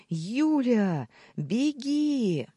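high, loud shout of warning; yelling warning. A narrator's reading. Kirill yells for Julia to run, high and loud. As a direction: scream at her to run. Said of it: "заорал".

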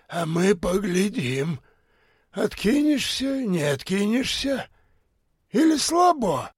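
высоко и медленно, с издёвкой; подначивай, как бомж на спор; насмешливый бомж. A narrator's reading. Бомж подначивает, хриплый голос. (бомж подначивает бизнесмена, насмешливо)

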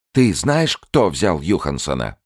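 high, loud fierce question; intense challenge. Acted. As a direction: grab him and demand. Grabbing his jacket.

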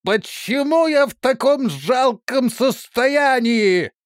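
high, loud, slow wail; humiliated soldier crying out, high and loud. A narrator's reading. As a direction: cry out in dismay at your state. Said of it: "закричал".

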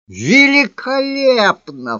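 high, drawn-out exclamation; exclaimed cry. A narrator's reading. Lover seizes on her insult, crying out high and drawn-out. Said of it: "вскричал я".

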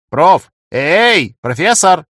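громкий зов, выше обычного; растолкать криком спящего; окликать громко. A narrator's reading. Сева будит спящего профессора. (громко окликает)

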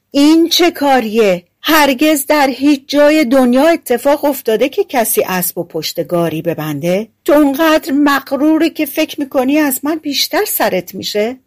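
high-pitched, outraged scolding; indignant shout. A narrator's reading. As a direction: cry out in disbelief at such foolishness. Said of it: "فریاد زد و گفت".

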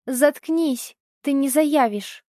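mother shouting down the kidnapper; angry shout. Acted. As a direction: snap it at him with full anger. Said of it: "я крикнула".

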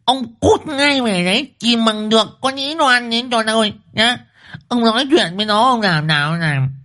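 high-pitched, relentless wifely ultimatum; fierce scolding wife. A narrator's reading. Wife orders husband to find the runaway, fierce scolding. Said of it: "Thị Liên trừng mắt chỉ tay vào mặt chồng".

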